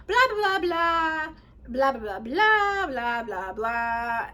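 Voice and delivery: gloss over the small talk in a mock chant; dismissive blah-blah. Real, not acted. Skims over small talk with blahs.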